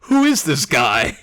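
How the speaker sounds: put-on slow, puzzled girl voice; Monika voice. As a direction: play her baffled and slow. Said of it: "Monika's like".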